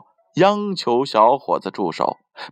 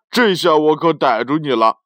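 loud triumphant shout; 4 semitones higher, 4 dB louder than usual. Acted. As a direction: cry out in triumph. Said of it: "小伙子大叫道".

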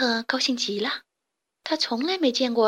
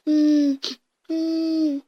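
whimpering; 5 semitones higher, 4 dB louder than usual. A narrator's reading. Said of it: "正在地上哭".

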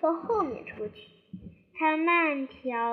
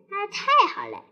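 relieved; 6 semitones higher, 7 dB louder, faster than usual. Acted. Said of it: "维尼松了口气".

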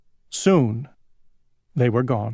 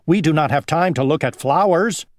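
dragonfly voice; 4 semitones higher, 4 dB louder, faster than usual. Acted. First dragonfly boasts.

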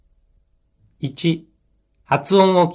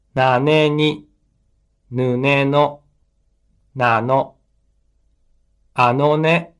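dictating; slower than usual. Shown as a demonstration. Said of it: "拍に注意して発音してください".

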